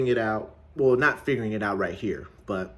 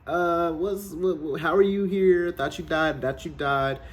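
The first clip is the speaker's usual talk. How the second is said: high, stammering mock panic; freaking out; 6 semitones higher than usual. Pimp seeing the dead dealer alive, freaking out. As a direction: stumble over the words in disbelief. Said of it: "Jamie Foxx's character is freaking out".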